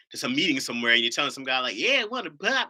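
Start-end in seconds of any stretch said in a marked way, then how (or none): 1.8-2.7 higher, drawled country bumpkin; mock Midwest hick. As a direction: play the hick asking for a pop. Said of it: "this is how they sound to you".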